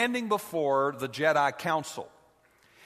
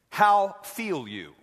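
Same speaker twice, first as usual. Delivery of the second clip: slow, higher, louder Yoda; 4 semitones higher, 3 dB louder, slower than usual. Retold or imitated. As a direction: ask it like little Yoda. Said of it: "That's the way he talks".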